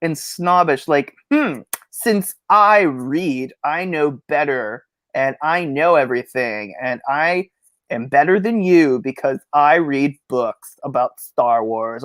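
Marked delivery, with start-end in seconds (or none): 1.3-12.0 slow, drawn-out snooty voice; mock snob. Mocking snobbish Star Wars fans, slow and snooty. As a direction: sneer like a know-it-all fan. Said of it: "it seems pretentious, like, and snobbish".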